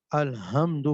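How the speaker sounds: الحمد with a plain light h in place of the throat ح; wrong letter ha. Shown as a demonstration. Tajweed teacher shows students a changed letter, mispronounced ha. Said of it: "Lahore والی ہا پڑھ دی".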